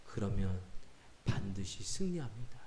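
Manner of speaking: low, soft, solemn assurance; hushed exhortation. Retold or imitated. Pastor's last word of counsel to a believer, hushed exhortation. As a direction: promise it quietly and firmly. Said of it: "제가 마지막으로 권면했어요".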